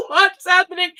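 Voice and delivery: retold surprise. Retelling the butt bump on video, mock surprised. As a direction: act out being startled. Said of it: "And I'm like".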